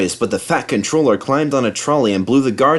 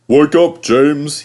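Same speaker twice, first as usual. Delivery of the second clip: louder, higher wake-up call; waking call; 6 semitones higher, 6 dB louder, slower than usual. A narrator's reading. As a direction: rouse the sleepy engine. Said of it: "he said".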